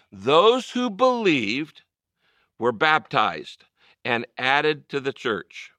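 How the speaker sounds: congregation reading aloud together; slow group recitation in unison; many voices in unison. Real, not acted. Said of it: "let's read it together".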